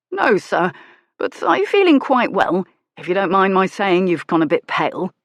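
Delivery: concerned servant, lightly voiced; lightly voiced driver. Kay answers Lucian.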